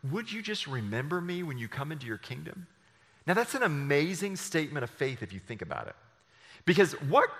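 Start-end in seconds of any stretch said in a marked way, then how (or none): 0.0-2.7 softer, humble plea; pleading. Retold or imitated. Dying thief quietly pleads with Jesus. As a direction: ask it quietly, almost begging. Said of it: "he just cries out to Jesus".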